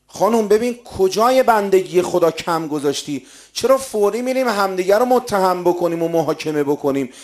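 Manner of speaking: emphatic preaching. Real, not acted. Preacher urging couples to examine themselves, emphatic. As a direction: press the point on the congregation.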